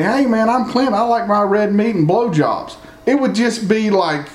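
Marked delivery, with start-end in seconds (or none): 0.0-2.8 higher, cheesy mock introduction; mock Clint. Clint introducing himself at the market, higher mock voice. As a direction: ham up an oddball oversharing his tastes.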